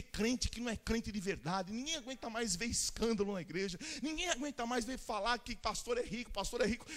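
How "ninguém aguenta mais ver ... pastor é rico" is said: ordinary talk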